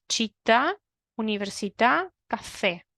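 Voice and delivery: accent the last vowel of "città", "università" and "café"; teacher's demo of "città", "università", "café" with the last syllable stressed; final-vowel stress. Shown as a demonstration. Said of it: "la última vocal está acentuada. Fíjate".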